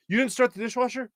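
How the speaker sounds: hammed-up wife catching him in the morning; mock wife voice. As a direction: squeak it like the wife, shocked. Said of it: "she goes".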